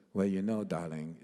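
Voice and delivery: lightly attempted diva imitation; half-hearted imitation, dropping low on darling; a singer. Star on the phone to young musicians, grand diva. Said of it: "my singer imitation".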